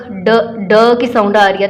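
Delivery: ड said as a short d sound; teacher modelling ड; phonics sound demo. Shown as a demonstration. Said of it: "देखिए डक".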